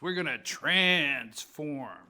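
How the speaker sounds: "transform" drawn out slowly, weight on "trans"; enunciated TRANS. Retold or imitated. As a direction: stretch the "trans" in "transform" as the key word. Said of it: "he enunciated".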